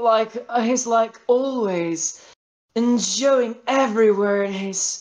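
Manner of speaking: high, slow, smoky diva voice. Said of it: "this is the sound I, speaking in English with my angel voice".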